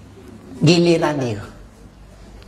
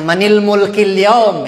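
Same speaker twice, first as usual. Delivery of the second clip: slow, solemn booming question; divine question; 5 dB louder, slower than usual. Acted. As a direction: ask it slowly and gravely. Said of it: "Allah tanya".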